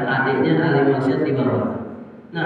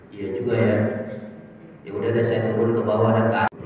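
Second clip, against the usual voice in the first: giving in; 4 semitones lower, 6 dB quieter, faster than usual. Acted. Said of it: "Akhirnya dia bilang begini".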